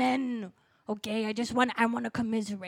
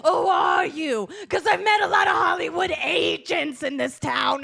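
mock tearful shout; 3 semitones higher, 4 dB louder than usual. Suspicious loud challenge.

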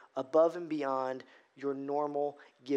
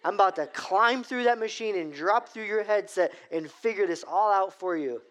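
mock threat; 2 semitones higher than usual. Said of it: "at this point, I'm like".

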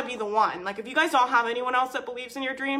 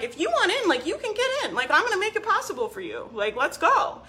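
much higher, rushing to persuade; eager pitch; 4 semitones higher than usual. Retold or imitated. Coach urging buyers on extended payment plans, eager. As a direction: push them to buy in with a grin. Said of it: "And I'm like".

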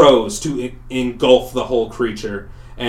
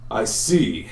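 monster voice. Acted. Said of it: "he says".

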